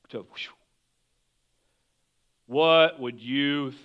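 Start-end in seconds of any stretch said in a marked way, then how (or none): 0.2-0.5 soft, low breathy whoosh. Shown as a demonstration. Preacher showing the storm going calm, hushed whoosh. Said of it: "it went from".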